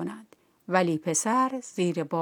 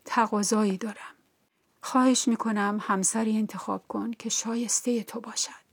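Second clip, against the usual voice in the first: sad plea; 3 semitones higher than usual. Acted. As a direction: plead gently, almost under the breath. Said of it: "با اندوه گفت".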